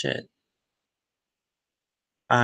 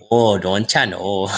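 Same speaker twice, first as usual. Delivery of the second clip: mock Wisconsin accent, rounded long o's; 3 semitones lower than usual. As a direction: parody a Wisconsin local. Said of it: "they talk to something similar".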